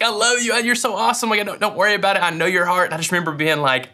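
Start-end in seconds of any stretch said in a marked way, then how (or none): 0.0-0.5 much higher, syrupy sweet imitation of his wife; mock sweet high wife voice. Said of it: "So she's just being so sweet". 0.6-2.9 much higher, syrupy sweet imitation of his wife; mock sweet high wife voice. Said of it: "So she's just being so sweet".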